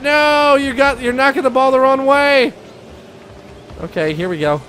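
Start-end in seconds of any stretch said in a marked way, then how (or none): 0.0-2.5 high cry at a teammate; exasperated protest. Real, not acted. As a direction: voice raised in pitch, scolding mid-game. Scolds teammate during play.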